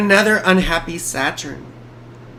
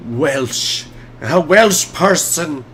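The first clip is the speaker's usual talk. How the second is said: slow, half-hearted attempt at a Welsh accent; bad Welsh accent; 2 semitones lower, much slower than usual. Streamer playfully trying out a bad Welsh accent. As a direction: have a poor go at sounding Welsh. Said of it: "That's not a good Welsh accent".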